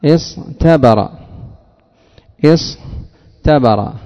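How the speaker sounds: اصطبر drawn out very slowly, ط heavy and emphatic; teacher dictating اصطبر slowly; slow demo word. Shown as a demonstration. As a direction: stretch اصطبر syllable by syllable. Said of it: "أصلها".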